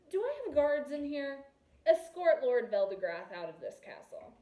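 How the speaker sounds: loud commanding call across the hall. A narrator's reading. Prince loudly summoning guards to remove Veldegrath. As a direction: raise your voice and order the guards. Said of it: "More loudly".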